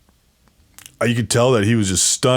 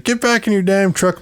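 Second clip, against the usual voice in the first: retold yelling; 9 semitones higher than usual. Amanda orders him back into truck, mild mock yell. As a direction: imitate her ordering him back, pitched up. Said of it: "she's yelling at me".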